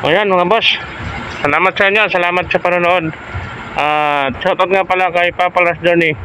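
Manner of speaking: lisping through a gap in the teeth; missing front teeth. Real, not acted. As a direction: talk like a tooth was just pulled. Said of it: "yung bagong bunot ang ngipin ko, ah, bungal ako".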